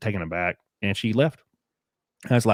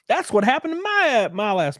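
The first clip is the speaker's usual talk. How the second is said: high laughing burst; rueful laugh mid-sentence; 4 dB louder than usual. Real, not acted. Laughing at own misfortune.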